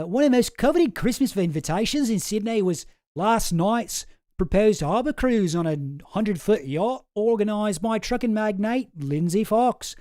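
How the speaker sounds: Australian accent attempt. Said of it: "I'll give it one more try".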